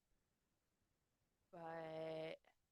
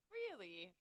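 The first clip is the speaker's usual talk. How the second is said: drawn-out syllables; 2 semitones higher, 8 dB louder than usual. Shown as a demonstration. Cohost teasing how wrenches talk, drawn-out REALLY. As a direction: draw out REALLY on its last syllable. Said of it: "draw out certain syllables".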